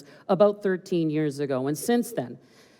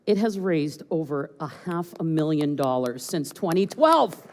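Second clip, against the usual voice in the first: dramatic reveal. Shown as a demonstration. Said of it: "Let this sink in for a moment".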